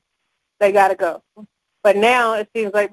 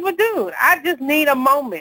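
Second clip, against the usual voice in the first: exasperated snap; 4 semitones higher than usual. Retold or imitated. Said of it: "Okay, I snapped".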